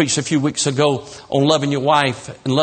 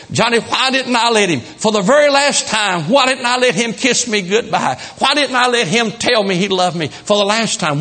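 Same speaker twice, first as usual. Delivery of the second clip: a widow's raised, pleading lament; grieving widow; 4 semitones higher than usual. Acted. Widow pleads to the preacher in grief. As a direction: cry out the regret she can't undo.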